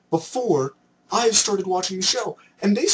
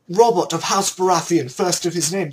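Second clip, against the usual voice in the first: put-on loud Game of Thrones British accent; mock British lordly announcement; 6 dB louder than usual. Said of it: "in a British accent".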